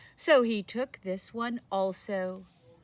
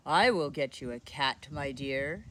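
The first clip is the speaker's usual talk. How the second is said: put-on old man voice; 5 semitones lower than usual. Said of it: "said the very old man".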